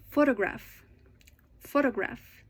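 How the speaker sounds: PHOtograph, said twice as a model; "photograph" with a longer, clearer PHO; first-syllable stress. Shown as a demonstration. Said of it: "it's usually louder".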